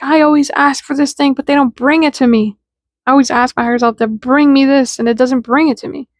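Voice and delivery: mildly whiny acted grievance; mock complaint. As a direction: imitate someone complaining. Acted complaint of frustrated askers.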